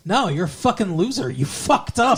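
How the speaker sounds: mock scolding, pitch lifting at the end; retold telling-off. Retelling Willow telling Faith off, mock scolding. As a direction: playfully act out a telling-off. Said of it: "Willow fucking tells her off".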